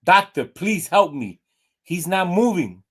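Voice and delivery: a frantic owner begging the vet; panicked plea. Acted. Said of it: "She panics".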